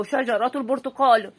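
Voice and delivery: شجرة البرتقال slowly, t clearly sounded, shajarat al-burtuqal; linked t sound. Shown as a demonstration. Teacher repeating the example for children: slow, clear t. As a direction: spell out شجرة البرتقال with the t joined to the next word. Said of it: "هنا شجرة البرتقال هنا قرأت تاء".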